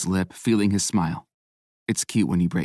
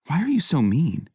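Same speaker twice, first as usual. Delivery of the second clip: whiny; 8 semitones higher than usual. A narrator's reading.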